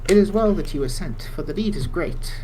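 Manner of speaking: lightly voiced formal elder; NPC quest giver. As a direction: read it like a stately quest giver. Reads NPC dialogue again.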